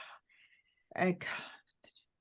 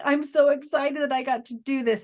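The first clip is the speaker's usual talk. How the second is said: higher-pitched, eager relaying; excited mother's message; 4 semitones higher, 3 dB louder than usual. Acted. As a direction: voice her excitement with a lifted pitch. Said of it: "she's like".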